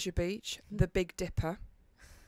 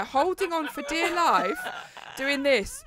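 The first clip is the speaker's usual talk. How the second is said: acted terror; 7 semitones higher, 5 dB louder, slower than usual. Acting out the ride.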